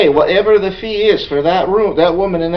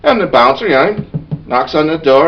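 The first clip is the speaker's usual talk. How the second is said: usual speaking voice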